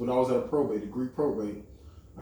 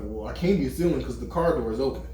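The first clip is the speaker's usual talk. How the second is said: laughing at the irony. Retold or imitated. Joking about looking like car thief.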